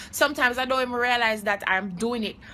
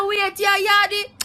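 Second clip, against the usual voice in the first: surprised recognition; 7 semitones higher, 4 dB louder, slower than usual. Retold or imitated. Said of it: "Him say".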